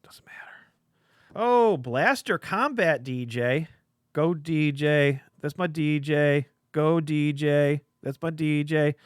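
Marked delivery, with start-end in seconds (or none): 1.3-8.9 slow, loud hype chant for the card; cheering. Acted.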